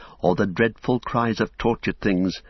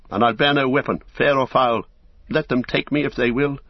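defiant cry; 6 semitones higher than usual. Acted. Frodo crying out defiantly as he flings away his gear. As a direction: cast off every weapon with a cry. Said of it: "he cried".

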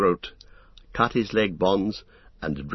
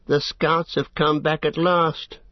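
higher, slow orc scout voice; 7 semitones higher than usual. Acted. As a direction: report like a wary orc scout. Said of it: "said an orc".

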